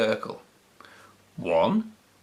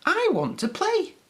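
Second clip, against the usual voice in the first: tag. A narrator's reading. Peppy the puppy speaks.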